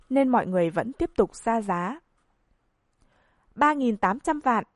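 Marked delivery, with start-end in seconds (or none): 3.6-4.6 deep-voiced call. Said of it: "ồm ồm giọng kêu lên".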